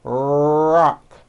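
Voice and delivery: "Rock" with lips pushed forward and tongue pulled back; American R in rock. Shown as a demonstration. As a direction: say "Rock" with a strong rounded American R. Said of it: "Watch this".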